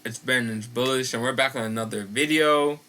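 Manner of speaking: muffled, talking around retainers. Real, not acted. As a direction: speak with a retainer in your mouth. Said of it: "that's why I sound muffled".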